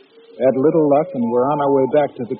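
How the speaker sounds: steady storytelling over music; story narration. A narrator's reading. Narrator recounting the night and the next day, steady storytelling. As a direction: tell it to the audience, steady and grave.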